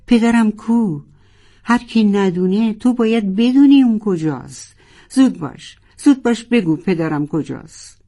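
high, loud insistent pressing; urgent furious questioning; angry demand. Acted. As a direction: shake the answer out of her. Narwhal shakes sunfish, demands answer.

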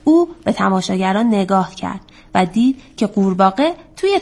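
measured, lilting storytime reading; story narration for children. A narrator's reading. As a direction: tell it to children with a rise and fall.

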